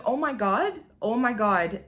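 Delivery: mild mock panic, pitch lifted then settling; retold fear. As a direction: lightly replay being scared. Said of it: "really fucking scared".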